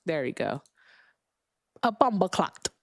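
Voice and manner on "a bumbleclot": put-on playful Jamaican accent, raised; hammed-up Jamaican patois. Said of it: "when I talk in a Jamaican accent".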